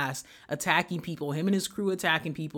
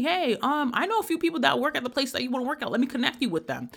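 professor voice; 8 semitones higher than usual. Retold or imitated. Professor quoted in story.

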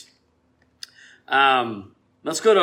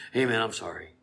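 softly acted, subdued apology; calmed-down apology; 2 semitones lower, 7 dB quieter than usual. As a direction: apologise quietly, as if just talked down. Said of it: "They just come right down".

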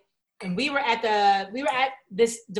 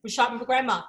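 lightly voiced kid and mother back and forth; whiny child vs mom; 3 dB quieter than usual. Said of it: "I was like".

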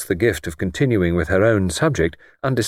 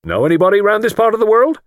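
kindly; 13 semitones higher, 5 dB louder, faster than usual. Acted. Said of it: "he inquired kindly".

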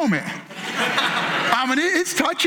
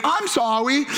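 put-on higher, playful little-kid sorry; flippant apology; 3 semitones higher, slower than usual. Two-year-old hugging tackled brother, flippant. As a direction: toss it off without humility. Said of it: "that's not the right way to say you're sorry".

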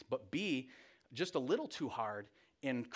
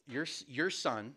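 slow, disowning emphasis on "your"; "your" stressed to hand over the blame; slower than usual. Retold or imitated. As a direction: lean on "your" in "your son". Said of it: "and it's not our".

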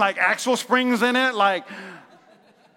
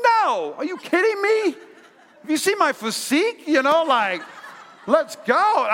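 laughing mock bravado; 5 semitones higher than usual. Bragging husband turns down help.

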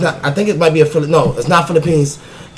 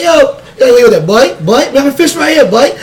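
mock Bahamian; 7 semitones higher, slower than usual. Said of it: "He's like".

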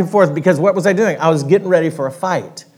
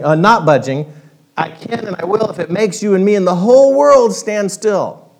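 louder stubborn creature voice; defiant south-going Zax; 3 semitones higher, 4 dB louder than usual. Acted. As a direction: declare your rule to the world. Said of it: "yelled the south-going Zax".

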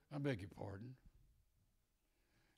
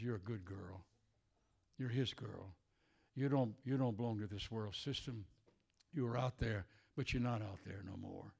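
tender comfort; 3 semitones lower than usual. Acted. Voicing the Lord's comfort.

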